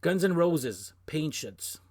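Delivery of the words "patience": "Patience" slipping into a Canadian French accent. Real, not acted. Vlogger slips up reading a song title, Canadian French accent. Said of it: "My Canadian French accent sticking out here".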